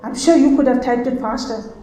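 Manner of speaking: mild mock reproach from the boss; a hint of an irritated boss; retold angry boss. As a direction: tell her off, lightly imitated. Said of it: "He got so angry".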